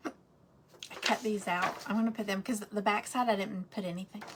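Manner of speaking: talking with hiccups. Real, not acted. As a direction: speak through the hiccups. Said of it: "I have the hiccups now".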